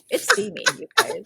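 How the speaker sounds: squealing. Real, not acted. Gushing about steamy letter.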